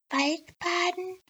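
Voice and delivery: very high, slow, baffled Waldbaden?; puzzled elf. Elf repeating the doctor's prescription, high and baffled. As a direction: echo Waldbaden as a strange word. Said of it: "fragte die Elfe und schüttelte den Kopf".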